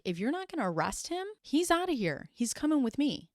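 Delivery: a lawyer pulling his client out, firm; defiant lawyer. Retold or imitated. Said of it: "the lawyer's like".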